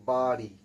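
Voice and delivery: loud বাড়ি with the tongue curled back on ড়. Shown as a demonstration. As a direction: demonstrate বাড়ি, ড় flapped backward off the palate. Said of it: "জিভটা দেখো গুটিয়ে চলে আসছে". (বাড়ি-র ড় জিভ পেছনে গুটিয়ে জোরে উচ্চারণ)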